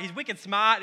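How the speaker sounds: "smart" said the Boston way as "smaht", with no r; a quick Boston twang on "wicked smart"; Boston accent. Shown as a demonstration. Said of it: "he's in Boston".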